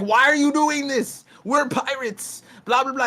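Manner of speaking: high, mocking villain whine; mocking Kaido. Luffy's friend mimics Kaido scolding him, high and mocking. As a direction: sneer it like a bored tyrant. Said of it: "Kaido was like".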